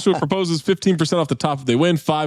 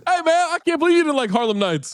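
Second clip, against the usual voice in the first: imitating Joshua; 12 semitones higher than usual. Joshua voice joke.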